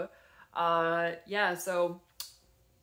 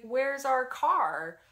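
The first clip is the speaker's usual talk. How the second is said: put-on higher, louder, drawn-out child's question; puzzled little kid; 6 semitones higher, 8 dB louder, much slower than usual. Puzzled niece asking her aunt about the car, lightly imitated. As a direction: lightly imitate a small child wondering aloud. Puzzled preschooler asks, retold.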